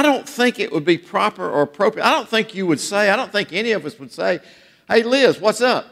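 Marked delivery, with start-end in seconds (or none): 4.9-5.9 overfamiliar greeting. Pretend. Overfamiliar greeting imagined for the Queen.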